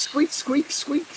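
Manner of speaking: high squeaky bunny noises; bunny speak. Pretend. Player talking to a bunny in high squeaks. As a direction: squeak like a small rabbit. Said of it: "what do you wanna say in bunny speak".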